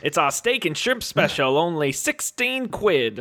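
British guy faking Australian; fake Australian accent. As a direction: read the ad in a phony Australian accent, slowing at the end. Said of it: "Do your best Australian accent".

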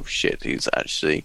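breathy stunned whisper; whispered reaction. Retold or imitated. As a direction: whisper it in shock. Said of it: "and you go".

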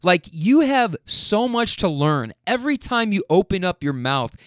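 mildly heated, deliberate scolding; retold snapping. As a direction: retell a fed-up outburst, drawing out the words. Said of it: "I, I snapped".

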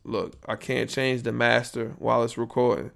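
ordinary talk

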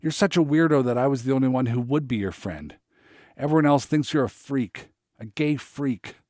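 put-on boy screams insults at Eric in fury; furious screaming. A narrator's reading. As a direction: hurl it at him in a rage. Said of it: "I screamed, voice cracking".

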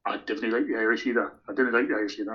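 put-on Geordie accent. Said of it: "you'll excuse my Geordie accent".

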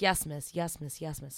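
lightly imitated low, obedient replies; submissive client. Client answering his mistress's commands, lightly submissive.

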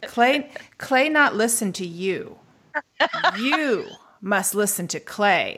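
slow, unhurried teacher's voice, mildly imitated; a hint of a calm Zen master. Student retelling her calm Japanese professor, slow and calm. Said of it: "He said very calmly".

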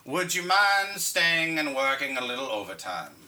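slow, low storyteller narration; Morgan Freeman voice. Pretend. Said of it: "doing the Morgan Freeman voice".

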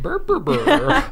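slow, high-pitched monster burbling; creature babble. Retold or imitated. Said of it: "Which means Jimmy needs to learn to cook".

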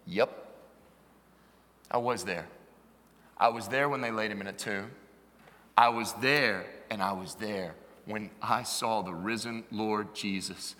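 low, measured eyewitness testimony; old witness recalling it, weighty and unhurried; Apostle John. Acted. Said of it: "if the Apostle John were here".

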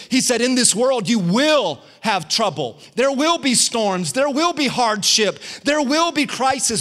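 each "will" punched, rising in pitch line by line; sermon build on "will"; preaching build. Acted. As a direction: climb with every "There will be". Preaching scripture with rising force.

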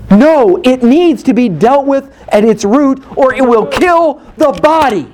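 urgent pulpit warning; forceful preaching. Acted. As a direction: preach it with force, slowing on the last words.

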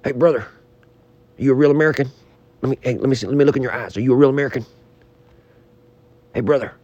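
a light Hulk Hogan impression. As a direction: play the hammed-up Hulk. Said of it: "it's my Hulk Hogan".

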